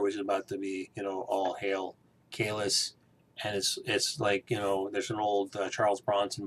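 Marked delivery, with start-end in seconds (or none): 1.3-2.9 solemn prayer. Retold or imitated. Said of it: "she starts doing the Klingon prayer".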